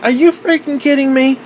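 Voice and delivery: can't believe what you see; exasperated disbelief; incredulous. Retold or imitated. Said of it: "And I'm like".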